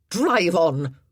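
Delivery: a curt order through clenched teeth. Acted. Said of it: "she commanded through clenched teeth".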